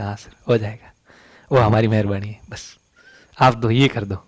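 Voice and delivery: low, softened acted reassurance; hushed, low-pitched quiet deal; quiet backroom assurance. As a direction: drop low and soft, as if arranging a favour. Acts out quiet favour at practical exam.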